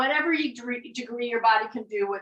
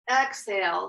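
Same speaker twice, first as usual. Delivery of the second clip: drawn-out s like a snake; 3 semitones lower than usual. Shown as a demonstration. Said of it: "the sound like a snake".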